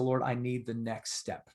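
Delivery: soft, earnest plea to the Lord; understated heartfelt prayer; quiet prayer. Retold or imitated. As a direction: pray it under your breath. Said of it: "I said".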